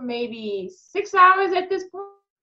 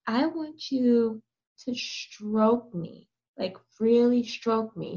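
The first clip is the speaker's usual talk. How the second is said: deliberate instruction; 2 semitones lower, 5 dB quieter, slower than usual. Retold or imitated. Instructs client face to face.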